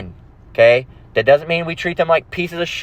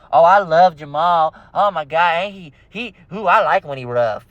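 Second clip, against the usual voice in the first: mock swooning imitation; smitten woman. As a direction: coo adoringly, sending her up. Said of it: "And they be like".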